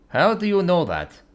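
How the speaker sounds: lightly voiced sad dragon; a hint of a mournful dragon. Dragon character voice.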